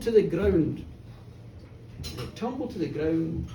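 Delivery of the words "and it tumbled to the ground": fading echo. A narrator's reading. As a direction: lower and softer, dying away. Bull falls, told then echoed.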